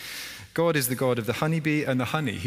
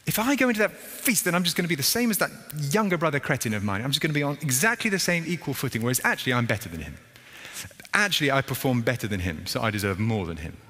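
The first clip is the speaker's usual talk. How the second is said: high, fast indignant rant; proud sulking son; 4 semitones higher than usual. Retold or imitated. Older son outside the feast, high indignant rant. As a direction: scoff at the equal footing.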